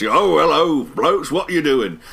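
put-on British accent. Podcaster imitating the droid's greeting in a British accent. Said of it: "he has this great British accent".

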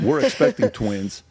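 slow, amused disbelief; chuckling at the memory; laughing. Real, not acted. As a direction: say it through a laugh. Laughs telling twins news.

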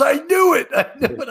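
high, gleeful I knew it with a laugh; triumphant professor. Retold or imitated. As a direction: crow that you guessed right. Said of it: "He goes".

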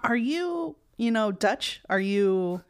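high, prying mock question; mock nosy question. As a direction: ham up the nosy stranger asking. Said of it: "very specific in that question".

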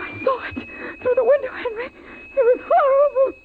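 breathless frightened crying; terrified, near tears. Acted. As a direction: voice breaking with fear. Mother terrified by what she saw.

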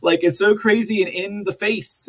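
ordinary talk

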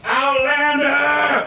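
high, slow drawn-out shout; ghostly drawn-out cry of a cult kid; creepy Malachi call. Retold or imitated. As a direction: call out eerily across the corn. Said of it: "he's going".

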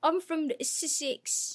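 slow, high, exaggerated English accent; mock Sussex accent. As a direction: tease with a drawn-out regional English accent. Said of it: "fonts of their accents".

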